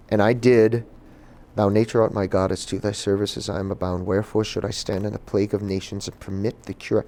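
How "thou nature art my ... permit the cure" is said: understated Shakespeare recitation, softening; restrained classical monologue, no accent; monologue without accent. Acted. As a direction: recite the verse in your own voice, softly. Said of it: "I said it without an accent".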